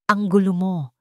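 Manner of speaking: mild narrated shout; understated yell at Mara. A narrator's reading. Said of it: "Sigaw ni Estrella".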